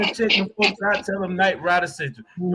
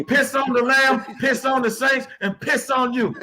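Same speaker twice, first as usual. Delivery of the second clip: shouted trash talk; 3 semitones higher than usual. Acted. Hate week trash talk chant.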